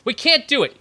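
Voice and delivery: frantic TV drama whine; previously on recap. Pretend. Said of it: "let me do my impression of Walking Dead".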